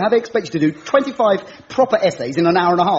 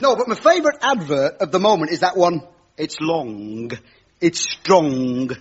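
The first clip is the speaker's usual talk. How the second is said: a lightly voiced cheesy stand-up doing his patter; cheesy comic host; 4 semitones higher than usual. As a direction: play the corny club comedian working the crowd.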